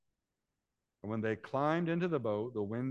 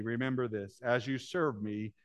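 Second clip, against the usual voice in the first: God's reassurance. Acted. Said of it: "God seemed to be saying to me".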